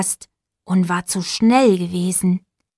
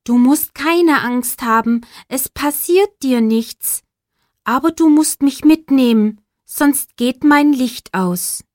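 little shooting star; 4 semitones higher, 3 dB louder than usual. Acted. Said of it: "sagte die kleine Sternschnuppe".

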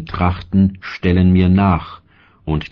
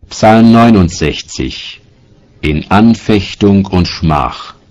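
a clear, raised title read; announced heading; 6 dB louder than usual. Real, not acted. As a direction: call out the heading to the room.

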